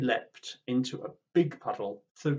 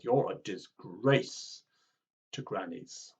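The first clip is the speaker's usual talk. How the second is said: angry scolding; 3 semitones lower, slower than usual. Acted. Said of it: "shaking their fists angrily".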